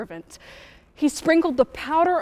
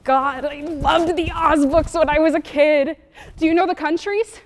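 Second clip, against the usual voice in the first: higher-pitched, eager fan talk; eager enthusiasm; 4 semitones higher, 3 dB louder than usual. Acted. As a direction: gush about a childhood love. Gushing over beloved childhood books.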